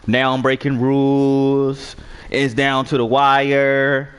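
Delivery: slow, drawn-out sarcastic mockery. Real, not acted. Gamer mocking his opponent's rule complaints, slow and sarcastic. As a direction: stretch each word out to mock him.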